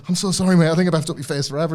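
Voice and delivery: mock sorry, rushed; gushing a quick apology; apologetic. Wrestler apologising to the man he hurt, hurried and sheepish. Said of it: "He's going".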